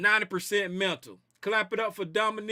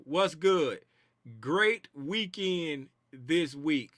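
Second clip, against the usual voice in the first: slow, lower-pitched read-out; real slow reading; 4 semitones lower, much slower than usual. Real, not acted. Host puzzling over a chat message, real slow reading. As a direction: read it out very slowly, word by word. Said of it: "read that again real slow".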